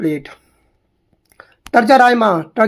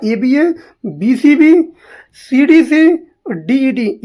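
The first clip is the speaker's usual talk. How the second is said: higher-pitched letter-by-letter recitation; reciting aloud; 4 semitones higher, much slower than usual. Shown as a demonstration. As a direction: call out the rhyme scheme for students. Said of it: "मैं बोल दे रहा हूँ".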